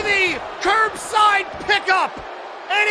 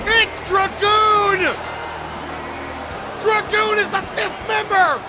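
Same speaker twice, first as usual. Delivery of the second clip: shocked announcer; 3 semitones higher than usual. Real, not acted. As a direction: react to the surprise entrance. Surprise entrance of Dragoon.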